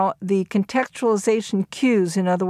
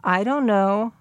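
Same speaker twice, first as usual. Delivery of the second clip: drawn-out DON'T, KNOW left open with a slight lift; hesitant, hoping to be coaxed; tentative. Retold or imitated. James answering the teacher, asking for encouragement, tentative. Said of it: "in that tentative sort of way".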